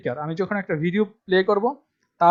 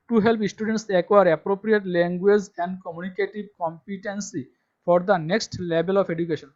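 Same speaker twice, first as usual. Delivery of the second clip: slow dictation reading; much slower than usual. Shown as a demonstration. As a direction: spell it out slowly for students to copy. Reading syllabus text aloud. (ধীরে ধীরে জোরে পড়ে শোনানো)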